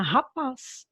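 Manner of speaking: "rapaz" with the weight on the final "paz"; "rapaz" stressed at the end, as a teacher's example; stressed last syllable. Shown as a demonstration. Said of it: "o som é mais forte".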